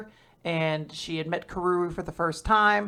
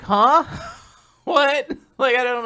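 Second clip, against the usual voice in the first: confused; 6 semitones higher, 3 dB louder than usual. Retold or imitated. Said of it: "even he's like".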